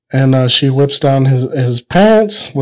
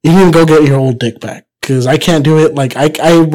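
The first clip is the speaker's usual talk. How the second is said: upset wife. Acted. Upset wife orders Pepito back to the doctor, mildly annoyed. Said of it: "So she gets upset".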